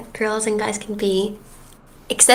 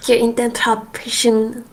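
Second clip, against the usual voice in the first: mock Swedish rant. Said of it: "I'm gonna rant to you".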